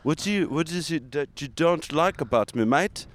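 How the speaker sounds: stammering mock-offended tycoon; Elon Musk. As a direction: play a wounded mogul demanding answers. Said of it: "So here, I'm Elon".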